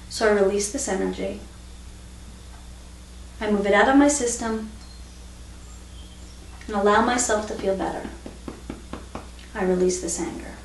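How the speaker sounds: soft, settled affirmations with pauses; calm release. Shown as a demonstration. Teacher modelling the positive replacement round, calm and soft. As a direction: let it go quietly, phrase by phrase.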